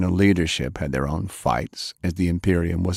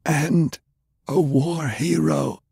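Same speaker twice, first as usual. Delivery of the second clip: put-on lightly raised, indignant old gentleman; a pitch-raised, prim older man, gently scolding; Browning's voice; 10 semitones higher, slower than usual. Browning retorting.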